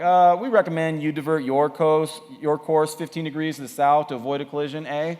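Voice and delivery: lightly put-on Canadian accent; a hint of Canadian, ending on a tagged-on eh; polite radio reply in a mild Canadian accent. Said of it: "Canadian accent".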